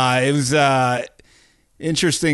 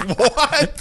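mock surprise; 14 semitones higher than usual. Retelling fighter's stunned reaction.

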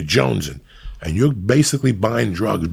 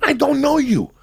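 exasperated. Real, not acted. Repeated again, higher.

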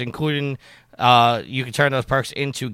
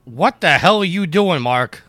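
exasperated shout; 6 semitones higher, 6 dB louder, slower than usual. Real, not acted. Yells at Mark feeding cats.

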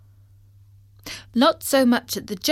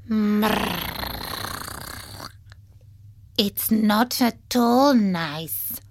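slow purring cat; much slower than usual. Acted. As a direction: drawl it like a sulky cat. Cat character voice.

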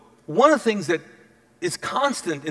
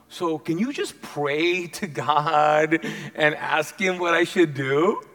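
sheepish request; 2 semitones lower, slower than usual. Acted. Stuck king asks prophet for favor.

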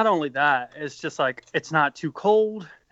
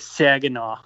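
Saginaw in an attempted Michigan accent. Shown as a demonstration. Bandmate showing the one word they can do, Michigan accent. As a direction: demonstrate a Michigan accent on the town name. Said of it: "say probably in a Michigan accent".

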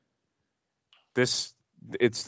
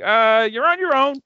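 high mock Jimmy voice, louder; imitating Jimmy; 5 dB louder than usual. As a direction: squeak it out like a nervous Jimmy. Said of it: "Jimmy was like".

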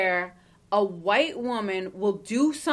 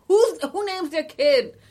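incredulous; 9 semitones higher, 7 dB louder, slower than usual. Real, not acted. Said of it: "mock outrage".

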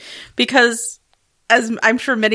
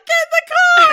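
high, loud yell at the characters; loud exasperated order to get in the car; shouting at the screen; 6 dB louder than usual. Pretend. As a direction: bellow it like they can hear you.

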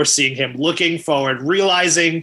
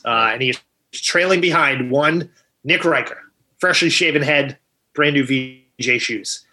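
mock sports commentary. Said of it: "let you do the play-by-play".

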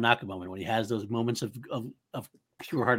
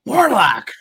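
proud declaration; 11 semitones higher, 10 dB louder than usual. Retold or imitated. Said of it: "Hacker jerk off".

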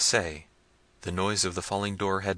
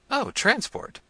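bright high exclamation of relief; joyful cry; 3 dB louder, slower than usual. Acted. Princess rejoicing at finding the lock. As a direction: cry out in sudden joy. Isabella finds the trap door.

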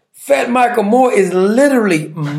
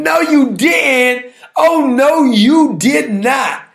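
mock outrage; 4 semitones higher, much slower than usual. Real, not acted. Mock outrage at eating joke.

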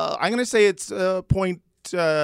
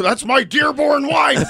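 higher, slow shout; shouted punchline; 14 semitones higher, 3 dB louder, slower than usual. Acted. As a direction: belt out the punchline.

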